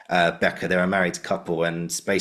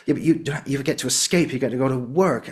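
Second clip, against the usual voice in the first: higher, heightened line delivery; imitated scene partner, voice raised in pitch; course mate's reading; 6 semitones higher than usual. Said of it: "the way she said it".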